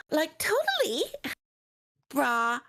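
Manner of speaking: high, drawn-out California surfer talk; surfer accent. Retold or imitated. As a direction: toss off like, totally, brah like a surfer. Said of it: "without the".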